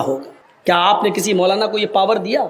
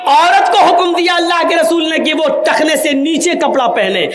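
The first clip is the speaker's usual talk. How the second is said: laughing explanation; 6 semitones higher than usual. Real, not acted. Preacher laughing while explaining.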